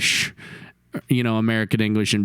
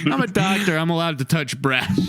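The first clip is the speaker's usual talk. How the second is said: 1 Howard Stern; 5 semitones higher than usual. Retold or imitated.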